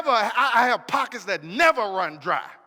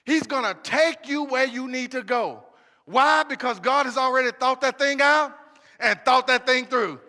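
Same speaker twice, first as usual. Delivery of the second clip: raised, ringing preacher's call; call-and-response preaching, rising; full-force preaching. Acted. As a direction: drive it home to the congregation.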